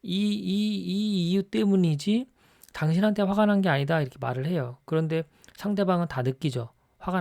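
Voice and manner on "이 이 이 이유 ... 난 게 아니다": higher, tense voice of a husband insisting he is not angry; a hint of a husband barely holding in his anger, denying it; irritated husband denying anger. Husband to wife over dirty dishes, tense and higher. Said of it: "이런 식으로".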